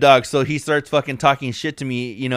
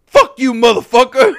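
high, loud, furious cuss-out; mock road-rage shout; retold angry yell; 10 semitones higher, 9 dB louder than usual. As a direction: snarl it like the angry driver. Driver Rich yelling at him.

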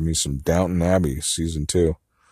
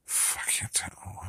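soft unvoiced whisper; 15 dB quieter, slower than usual. Real, not acted. Unsure, murmuring to herself in a whisper. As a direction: trail into a whisper.

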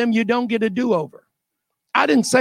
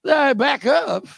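slow, chuckling back up; laughing order; 2 semitones higher, slower than usual. Retold or imitated. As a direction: laugh through the command.

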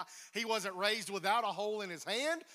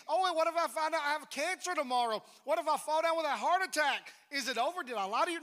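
doubter's objection; 6 semitones higher, 6 dB louder, faster than usual. Retold or imitated. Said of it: "So it can defeat me".

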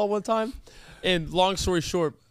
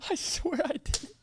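hushed high aside; 9 semitones higher, 7 dB quieter, slower than usual. Real, not acted. Whispered aside while hurting hand.

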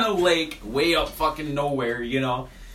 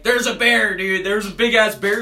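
loud, raised retold warning; hammed-up excited shout; acted-out alarm; 6 semitones higher, 6 dB louder than usual. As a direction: call out the bear sighting to your buddy. Acting out drunken bear alarm.

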